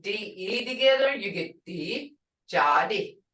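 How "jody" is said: Jody with a ch-like j, said slow and careful; Muskogee word. Shown as a demonstration. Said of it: "When you put 'em all together".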